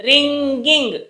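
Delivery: రింగింగ్ with a held nasal "ng"; రింగింగ్ drawn out for learners; NG sound. Shown as a demonstration. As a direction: show the "ng" in రింగింగ్, ring-ging. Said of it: "జ్ఞా sound వస్తుంది చూసారా".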